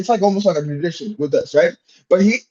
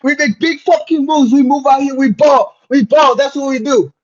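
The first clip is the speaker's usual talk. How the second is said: hyped-up intro; 6 semitones higher than usual. Acted. Hype podcast intro.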